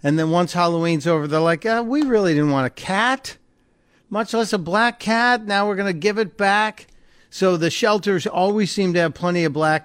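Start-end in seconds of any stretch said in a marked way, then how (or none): 1.7-6.9 higher-pitched, imitating half-hearted pet owners; lightly mocking, raised-pitch quote; mock reluctant owners. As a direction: mimic people backing out of a commitment. Voices owners returning Halloween cats.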